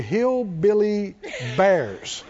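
drawn out slowly; slow repeat. Shown as a demonstration. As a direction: spell it out slowly for the crowd. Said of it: "I'll say it again slow for you".

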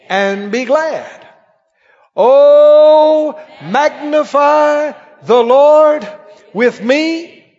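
slow, swelling psalm reading, loud peaks; scripture reading. Acted. Preacher leading the church in the psalm, slow and ringing. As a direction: proclaim the psalm slowly like a preacher.

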